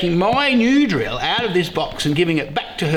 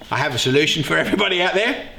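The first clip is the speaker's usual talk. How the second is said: ordinary talk, nothing marked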